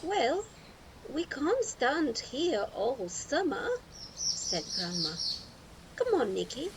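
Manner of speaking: put-on rally the boy along, cheerfully; brisk grandma voice. A narrator's reading. Grandma calling Nicky to supper, hearty and loud.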